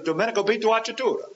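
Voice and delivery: Domenico Vito Acciatura rolled off quickly in Italian; Italian pronunciation. Shown as a demonstration. Preacher giving his dad's full name, quick Italian pronunciation. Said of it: "That's the way we pronounce it".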